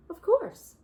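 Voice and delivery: high, loud cheerful yes; bright agreement. Acted. Nora cheerfully letting Bear feed the baby. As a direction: agree with delight.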